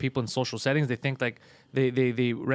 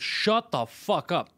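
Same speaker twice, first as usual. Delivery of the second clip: slow put-down; 3 semitones higher, much slower than usual. Retold or imitated. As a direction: drag out each word, flat and firm. Comic shuts down hecklers.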